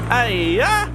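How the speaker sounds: high loud playful cry; exclamation. Retold or imitated. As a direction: toss in a cartoonish interjection. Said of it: "peppered the speech with a bunch of".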